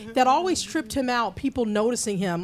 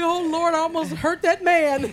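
mock remorse; 6 semitones higher, 5 dB louder than usual. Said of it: "he's like".

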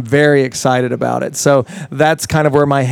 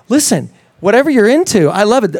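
higher, eager and open-hearted; enthusiastic reassurance; 6 semitones higher than usual. Retold or imitated. Answering skeptical friends, higher and eagerly accepting. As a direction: cheerfully wave off the doubters. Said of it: "I'm just like".

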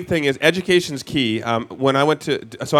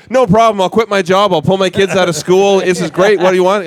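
louder, higher, overeager gushing; gushing eager homeowner; 5 semitones higher, 6 dB louder than usual. Retold or imitated. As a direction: gush like a starstruck homeowner ready to drop everything. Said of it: "They'll be like".

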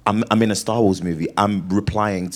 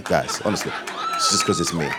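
mock seductive. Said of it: "I sound sexy like this".

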